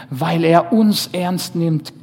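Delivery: preacher driving home the point; emphatic. Shown as a demonstration. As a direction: hammer it home, slowly and loud. Point repeated, second time louder.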